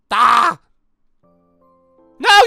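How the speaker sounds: ordinary delivery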